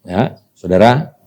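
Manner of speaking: ordinary talk, nothing marked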